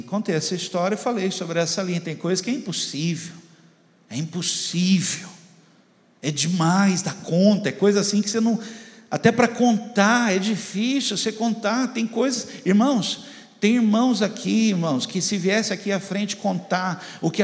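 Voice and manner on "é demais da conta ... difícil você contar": ordinary delivery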